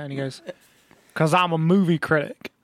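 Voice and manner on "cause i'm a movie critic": lightly put-on self-important voice, rising at the end; mocked movie critic. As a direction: mimic a show-off, stretching it slightly. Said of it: "He doesn't actually talk like that".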